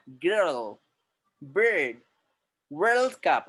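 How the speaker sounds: American-style accent, long curled r; foreigner's English accent. Shown as a demonstration. Teacher showing how foreigners speak, American-style accent. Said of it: "foreign लोग कैसे बोल रहे हैं?".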